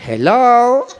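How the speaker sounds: high, loud, laughing flirty hello; a high amused drawn hello to the pretty lady; smitten hello. Retold or imitated. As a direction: greet her like you're instantly smitten. Surprised by pretty Rosario.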